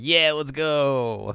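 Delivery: loud, drawn-out mock shout; excited cheer. Shippo and Kirara celebrating, hammed-up excited shout. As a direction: stretch out a rallying cheer. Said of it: "Him and Kirara are just like".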